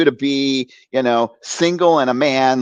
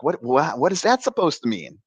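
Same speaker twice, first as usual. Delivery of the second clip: mildly acted, stammering disbelief; baffled retort; 2 semitones higher, 5 dB quieter than usual. Acting out his baffled first reaction.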